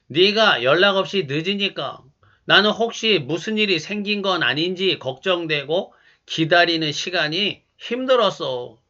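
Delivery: calm, worried I-statement; calm and gentle. Shown as a demonstration. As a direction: explain the worry calmly. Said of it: "차분하게 이렇게 말해 보시기 바랍니다".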